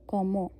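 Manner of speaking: कॉमो with open ɔ and silent ent; model comment. Shown as a demonstration. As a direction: say कॉमो, nothing after the o. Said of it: "तो ये कॉमो बन जाएगा".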